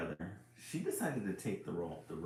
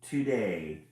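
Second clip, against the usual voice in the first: very slow, louder, drawn-out no; grumpy refusal; 3 semitones higher, 7 dB louder, much slower than usual. Acted. Book refusing story time to the reader, slow and loud. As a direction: drag it out firmly.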